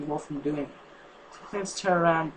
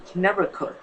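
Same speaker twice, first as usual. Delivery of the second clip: plain reading voice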